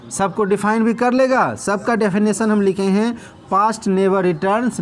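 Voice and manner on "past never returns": very slow, word by word; slow dictation. Shown as a demonstration. Teacher dictating to students, very slow. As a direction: give them time to write each word.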